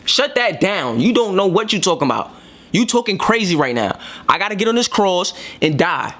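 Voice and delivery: emphatic, insistent telling-off; not-nice rebuke. Retold or imitated. Jesus rebuking a disciple who would stop him, not-nice rebuke. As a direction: firmly rebuke them in casual retelling. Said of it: "that's not a nice response".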